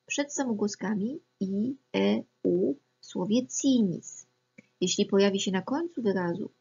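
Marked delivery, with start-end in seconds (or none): 2.0-4.3 "cinis" said slowly, with the c read as ts; Latin pronunciation demo. Shown as a demonstration. Teacher showing Latin C before E, I, slow and clear. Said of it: "i jak C".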